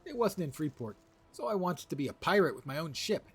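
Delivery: high, loud, earnest little ratonga voice; young rat creature. Acted. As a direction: plead like a small would-be pirate critter.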